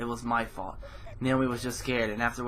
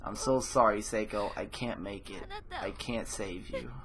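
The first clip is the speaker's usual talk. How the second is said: near tears, giving up, trailing off; tearful. Acted. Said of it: "Tears were welling up in my eyes".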